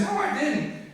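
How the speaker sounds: high, breaking into a laugh; nervous giggly no; laughing denial. Retold or imitated. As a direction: deny it again while cracking up. Denying again, laughing.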